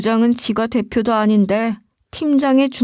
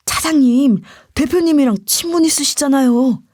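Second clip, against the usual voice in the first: half-hearted stage whisper; audible whisper. Acted. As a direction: confide in the boss's ear, meant to be overheard. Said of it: "귀에다 대고 말하는데 다 들리게끔 속삭이고". (다 들리게 속삭이는 척)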